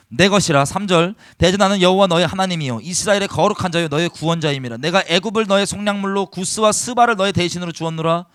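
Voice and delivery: solemn, ringing reading of scripture. Acted. Pastor reads God's words to the congregation, solemn and ringing. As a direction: proclaim the verses firmly to the hall.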